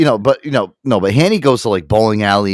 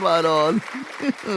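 Italian-American exclamation; 8 semitones higher, 6 dB quieter than usual. Acted. Imitating Italian slang.

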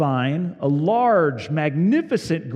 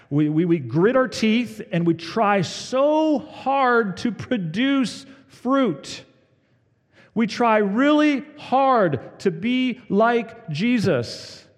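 mock strain; 9 semitones higher, 4 dB louder, slower than usual. Straining to produce fruit.

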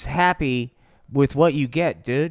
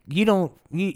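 usual speaking voice

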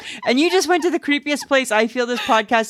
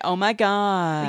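put-on slow, stretched Valley Girl accent; Valley Girl attempt; slower than usual. Shown as a demonstration. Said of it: "Look at, I'm doing it".

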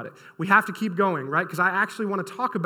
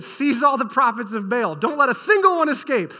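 commanding; 4 semitones higher, 4 dB louder than usual. Acted. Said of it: "Elijah commanded".

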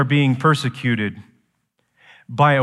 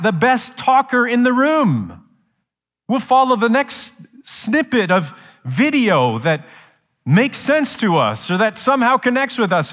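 raised, higher preaching voice; 9 semitones higher, 4 dB louder than usual. Real, not acted. Preacher warning the church about smooth talkers, preaching. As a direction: preach it with rising force.

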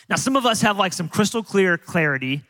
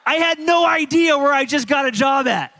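laughing; 6 semitones higher, 3 dB louder than usual. Real, not acted.

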